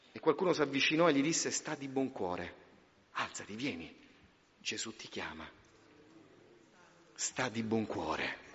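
gentle, near-murmured encouragement; tender hush. Acted. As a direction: comfort a broken beggar gently. Tender quiet quote and echo.

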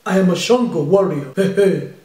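low-pitched African warrior boast; African accent. Acted. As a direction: announce it in a heavy African accent.

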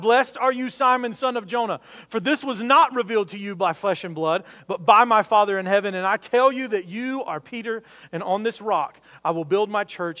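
preacher booming Jesus' blessing to Peter; ringing proclamation. Retold or imitated. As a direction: proclaim it like a blessing over a crowd.

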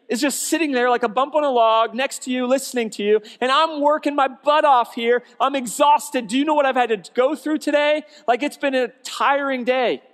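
loud, high, exhausted complaining; frazzled rant. Retold or imitated. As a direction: pour out the whole tiring day. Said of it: "Martha venting to Jesus".

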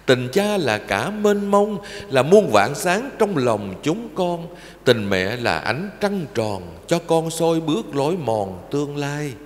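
slow, tender recited verse; poem recitation. Acted. Monk reciting a poem about parents to children, slow and tender. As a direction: intone each line like a prayer to mother.

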